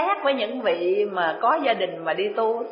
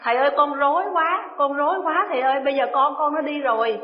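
flustered plea; 4 semitones higher than usual. Retold or imitated. Disciple's panicked phone call.

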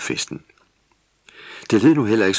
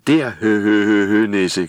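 mock giggling ho-ho, louder; laughing; 2 semitones higher, 7 dB louder than usual. A narrator's reading. Little gnome laughs at Vrisnis in the hay. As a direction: laugh and point at the hidden gnome. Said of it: "grinede Snip".

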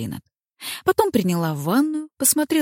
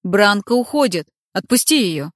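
firm demand; 3 semitones higher, 5 dB louder than usual. Acted. Кайдер требует у врага.

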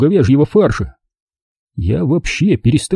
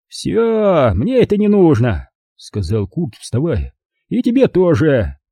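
Kurt leaving; 4 semitones higher, slower than usual. Acted.

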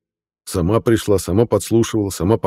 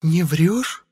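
high rising astonished question; surprised witch; 11 semitones higher than usual. A narrator's reading. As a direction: gasp it in disbelief. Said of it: "изумилась ведьма".

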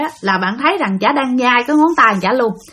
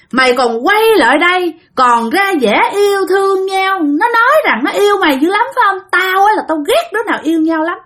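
nagging ghost; 3 semitones higher than usual. Acted. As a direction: nag and jab at the couple, pitched up. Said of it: "bà nói mà cái kiểu chì chiết". (giọng bà ma chì chiết, cao giọng)

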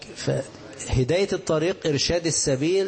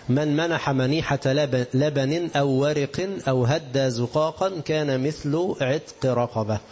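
slow, measured recital of the text; solemn slow quotation of the hadith; slow hadith recitation; slower than usual. Shown as a demonstration. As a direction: recite it deliberately, word by word.

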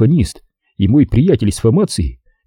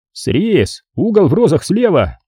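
high-pitched, garbled desk greeting; police phone voice; 7 semitones higher, slower than usual. A narrator's reading. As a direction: rattle off the department name up high. Next police voice answers garbled.

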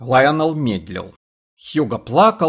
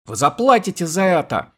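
high, cracking threat; shrieking threat; 6 semitones higher than usual. A narrator's reading. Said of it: "Его голос сорвался и перешёл в рыдание".

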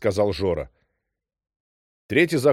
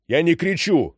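loud denial; 7 semitones higher, 3 dB louder than usual. A narrator's reading. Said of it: "Кричишь!".

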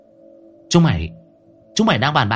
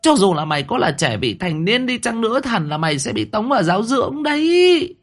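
much higher, seething rebuke; through gritted teeth; 12 semitones higher than usual. A narrator's reading. Mother seething at her daughter's trouble. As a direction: grind each word out in rage. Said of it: "nghiến răng nghiến lợi".

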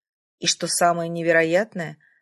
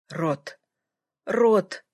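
moaning. A narrator's reading. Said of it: "простонал он".

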